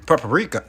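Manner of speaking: Paprika said as PEP-uh-ree-kuh; his own paprika. Shown as a demonstration. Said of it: "'Cause I say".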